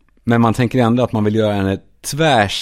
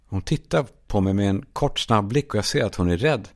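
ordinary talk, nothing marked

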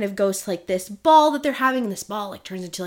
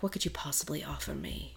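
low, hushed, seductive queen; sultry voice; 6 semitones lower, 17 dB quieter than usual. Acted. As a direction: purr it low and soft, tempting. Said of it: "There goes Jillian's sultry voice".

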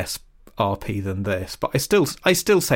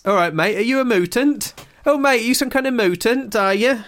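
higher-pitched, rising Lincolnshire questions; Lincolnshire accent; 10 semitones higher than usual. Shown as a demonstration. Podcaster demonstrating their way into the accent, Lincolnshire accent. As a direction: put on a matey Lincolnshire accent. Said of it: "my way into a Lincolnshire accent".

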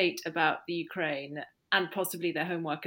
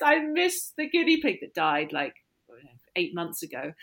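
daughter's voice. Retold or imitated. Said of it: "She goes".

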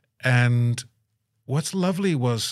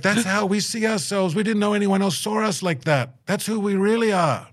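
moved excitement; 10 semitones higher than usual. Retold or imitated. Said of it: "They're like".

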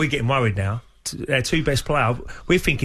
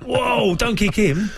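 alarmed shout; 6 semitones higher than usual. Retold or imitated. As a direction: yell at the new boy to stop kicking. Alarmed teammate shouting at trialist.

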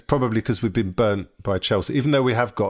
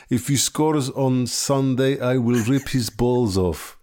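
put-on awful Ukrainian accent; 3 semitones higher, slower than usual. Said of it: "my awful Ukrainian accent there".

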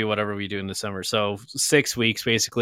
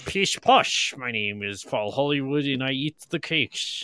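mock posh British. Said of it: "he is very much not posh".

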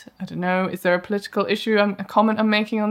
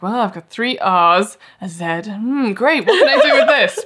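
puzzled player; 2 semitones higher, 4 dB louder than usual. Retold or imitated. Imitating a puzzled Scrabble player.

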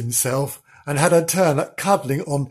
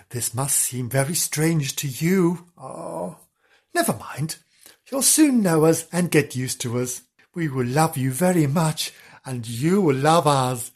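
soothing. Acted. Sister comforting the newly arrived puppy, soothing. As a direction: settle the puppy with calm kindness.

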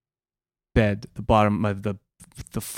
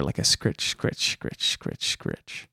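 breathy scritch sounds, softer and lower; whispered scratching noise; 9 dB quieter, slower than usual. Retold or imitated. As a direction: rasp out the scratching like claws on wood.

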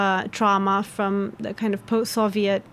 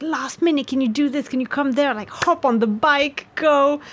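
urgent request; 5 semitones higher than usual. Acted. Acts out a last-minute request.

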